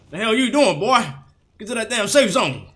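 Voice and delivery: mock military announcer nagging the player; Graves announcer impression. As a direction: bark the order like the Graves announcer. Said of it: "bring full parrot mode out of me".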